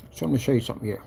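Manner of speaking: talking while munching chips; crunching chips. Real, not acted. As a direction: mouth full of crunchy snack. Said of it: "Sorry about the crunching".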